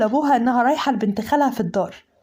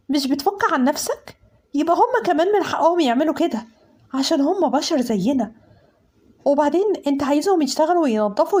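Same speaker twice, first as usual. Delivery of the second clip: higher-pitched run of pointed questions; indignant challenge; 4 semitones higher than usual. Acted. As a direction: argue the servants' case, mildly worked up. Indignant argument defending servants. (استنكار واحتجاج)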